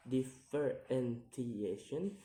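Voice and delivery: "differentiation" slowly split into syllables; slow, separated syllables on "differentiation". Shown as a demonstration. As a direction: sound out "differentiation" piece by piece. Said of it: "count the word syllable backwards".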